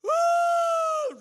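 very high, piercing imitation wail; mock loud wail. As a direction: imitate someone bawling out loud. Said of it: "when I mean crying, I'm like, "Woo!" really loudly".

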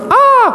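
short, loud, high-pitched yelp; a sudden high cry as if thrown overboard; mock scream. Jonah going overboard from the boat.

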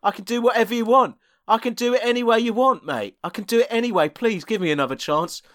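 begging for the role. Acted. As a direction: plead desperately for another chance. Actor begs for role.

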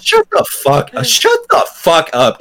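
high furious outburst; shrieking rant. Real, not acted. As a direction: scream it at the author in disgust. Ranting at Chuck Palahniuk.

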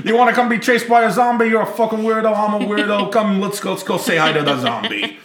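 creepy butler. Pretend. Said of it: "I should be like that".

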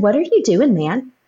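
wife recalling challenging God as she would her husband; retold exasperation. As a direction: confront God like a frustrated spouse. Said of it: "talking to him like I would Josh if I was angry".

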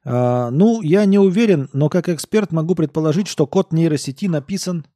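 loud, high tipsy expert; a drunk coder holding forth; drunk programmer voice. Acted. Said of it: "Программист пьяно икнул".

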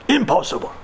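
lightly imitated German accent; dismissive, with a hint of German accent; German doctor. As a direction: deliver a German-accented verdict. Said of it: "I hear his voice in my head".

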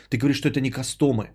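ordinary delivery

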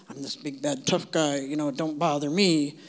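lightly voiced low tough guy; a hint of a gruff keep-away act; tough-guy persona. People putting on a front to keep others away, mock tough. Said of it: "people sometimes put on a persona".

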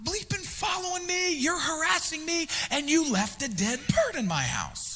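high, slow accusing voice; imitating the woman. Woman confronting the pastor in his face, high accusing imitation. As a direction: lift the pitch and accuse slowly. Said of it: "she would be like".

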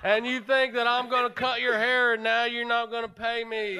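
put-on Merle Southern accent. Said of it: "Oh, that's Merle".

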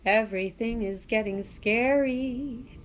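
creepy talk-singing; Willy Wonka. Acted. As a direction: lightly imitate a creepy singsong storyteller. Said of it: "talks singing, but he's got this creepiness".

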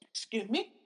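breathless whisper after coughing. Real, not acted. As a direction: whisper an apology between coughs. Coughing fit, excusing herself.

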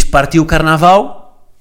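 put-on slow, drawn-out Brazilian-accented phrase; mock Brazilian Portuguese. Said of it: "quem diz". (a imitar o sotaque brasileiro, arrastado)

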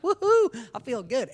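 very high, loud party whoop; mock drunk celebration; tipsy whoop. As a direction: cheer like you've had a few. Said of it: "you're like".

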